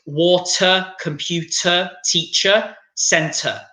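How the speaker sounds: "water, computer, teacher, center" each ending in "uh"; schwa endings. Shown as a demonstration. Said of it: "it's the same as water".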